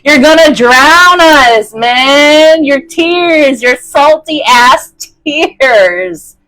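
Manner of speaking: high, loud, frantic little creatures; panicked tiny creatures. Retold or imitated. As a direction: squeal like tiny creatures about to drown. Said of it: "They're like".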